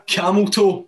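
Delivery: retelling a co-host's sudden shout; shouted camel toe. Retold or imitated. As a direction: blurt it out of nowhere. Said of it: "Alex Ray just went".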